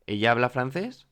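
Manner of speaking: "ella habla francés" asked with a rise at the end; rising question intonation. Shown as a demonstration. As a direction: raise "francés" to turn it into a question. (pregunta que sube al final en "francés")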